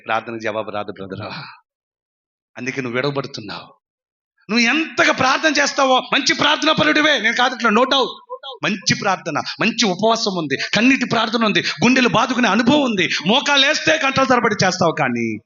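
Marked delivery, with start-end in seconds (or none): 4.5-14.9 raised, pressing pulpit voice; impassioned preaching. Acted. Preacher conceding the listener prays for hours, impassioned preaching. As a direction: pile up the phrases in preaching cadence.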